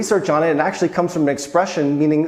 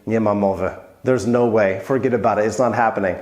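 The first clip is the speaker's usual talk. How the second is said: low, firm "nie ma mowy"; wife turning down a band; wife's flat refusal; 6 semitones lower than usual. Retold or imitated. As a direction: drop the voice and refuse it flatly. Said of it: "my wife looks at me".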